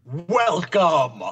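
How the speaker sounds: slow booming dark lord welcome. Acted. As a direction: drag out each word like an evil overlord. Spooky welcome after host.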